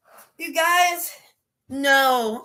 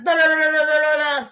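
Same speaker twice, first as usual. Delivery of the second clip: flipping-through noise; 3 dB louder than usual. Retold or imitated. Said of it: "Rolodex of names like".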